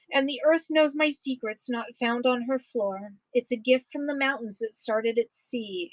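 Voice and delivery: steady, rhythmic poem read-aloud. Acted. Reading a prairie poem to an audience, rhythmic read-aloud. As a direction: read the verses with a lilting beat for listeners.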